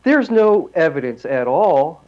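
slow, drawn-out mock certainty; sarcastic. Real, not acted. Host mocking deniers of pagan roots in Christianity, sarcastic. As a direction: lay on the sarcasm slowly. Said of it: "I'm being sarcastic if you can't tell".

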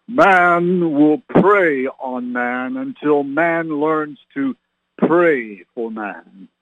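slow, solemn voice of God. Retold or imitated. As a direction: intone it slowly like God speaking. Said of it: "gonna use my best God voice here".

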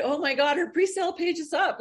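excited. Retold or imitated. People excited about pre-sale.

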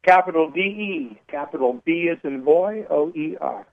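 spelling the name letter by letter; each letter named separately, with "capital" before it. Real, not acted. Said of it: "Spell your last name".

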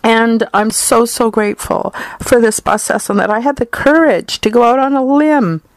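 heartfelt, real emotion lifting the voice; thankful and close to tears; emotional. Real, not acted. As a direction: still a little choked up with gratitude. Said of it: "I'm getting emotional here".

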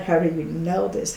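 voiced amazed question; stunned question. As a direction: ask it aloud in shock. First take, voiced.

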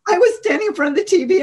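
high, loud and worked up retelling; high and loud, reliving the moment. Real, not acted. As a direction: let it rush out, still upset. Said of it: "And I started crying".

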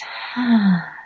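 long audible out-breath sigh; deep exhale sigh. Shown as a demonstration. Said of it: "And in and out".

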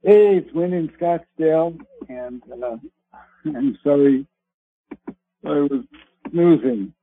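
muffled, bass-heavy phone line; muffled bass only. Real, not acted. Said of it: "you sound muffled".

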